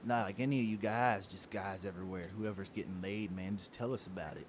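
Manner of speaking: low, soft, sleazy redneck radio voice. Acted. Host coaxes guest for tour gossip, sleazy redneck DJ voice. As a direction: drop low and ooze like a sleazy country DJ. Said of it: "sleazy redneck D J voice".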